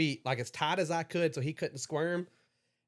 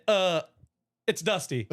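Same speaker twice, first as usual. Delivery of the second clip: laughing sheepishly; 3 semitones higher, 5 dB louder than usual. Retold or imitated. Nervous reply at gunpoint, laughing.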